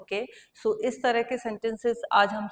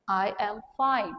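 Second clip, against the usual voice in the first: very slow, each word spaced out; slow model answer; much slower than usual. Shown as a demonstration. Teacher modelling for students, very slow and clear. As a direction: say it slowly for the class to repeat. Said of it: "आप देते हैं".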